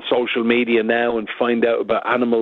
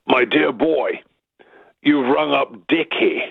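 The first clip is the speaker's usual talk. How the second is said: booming voice; 3 semitones higher, slower than usual. Retold or imitated. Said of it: "This booming voice comes back".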